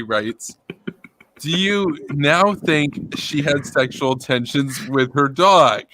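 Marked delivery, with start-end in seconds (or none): 1.4-5.8 slow, deadpan read-out; dead earnest. Retold or imitated. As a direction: read it slowly without a hint of irony. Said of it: "without a hint of irony".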